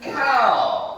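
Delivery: cow said high and firm; choral repeat. Shown as a demonstration. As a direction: chant cow back together. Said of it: "You say".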